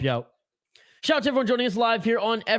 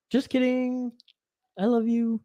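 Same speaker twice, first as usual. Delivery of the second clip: playful take-back; 4 semitones higher, 4 dB quieter than usual. Real, not acted. Playful soft take-back after mock scolding.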